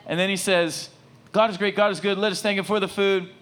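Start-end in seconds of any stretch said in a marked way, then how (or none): 1.3-3.3 put-on high, emphatic kid's prayer, dropping on the amen; earnest child's recital, pleading for a treat; praying kid. Six-year-old praying for ice cream at dinner, high kiddie recital. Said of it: "this kid's praying over the meal".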